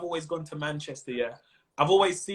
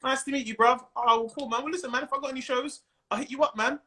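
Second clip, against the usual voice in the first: friendly enthusiasm; 5 semitones higher than usual. Retold or imitated. Friendly greeting between comics at show.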